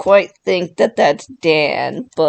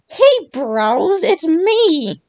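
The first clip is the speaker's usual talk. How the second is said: a bad, higher bro voice, done on purpose; terrible Cameron impression; 9 semitones higher, slower than usual. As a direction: ham up a rough bro greeting, pitched up. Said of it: "a terrible Cameron impression".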